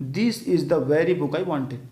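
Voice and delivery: very slow, each word set apart; slow example sentence. Shown as a demonstration. Teacher slowly reading the example sentence to the class. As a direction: read it out slowly like dictation. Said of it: "मैं आपको एक sentence समझाता हूँ".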